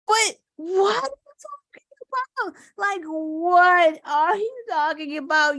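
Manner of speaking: real frustration, voice cracking into a shout; exasperated outcry. Real, not acted. Vlogger venting at critics of Biden, cracking exasperated shout. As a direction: throw the question at them, fed up and breaking. Exasperated outburst at Republican talking point.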